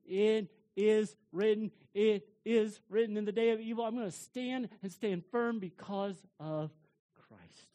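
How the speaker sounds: loud, firm "it is written"; firm declaration. Pretend. Believer standing firm under trial, loud declaration. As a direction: proclaim it with resolve. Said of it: "you can say".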